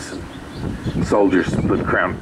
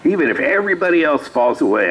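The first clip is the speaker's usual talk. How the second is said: higher-pitched, emphatic pledge; retold heartfelt protest; earnest vow; 8 semitones higher than usual. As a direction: insist on your loyalty, pitched up. Peter vows loyalty to Jesus.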